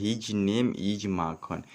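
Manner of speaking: each word read slowly and clearly; slow dictation pace; slow reading aloud. Shown as a demonstration. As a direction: read the line slowly so students follow. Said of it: "क्या लिखा हुआ है".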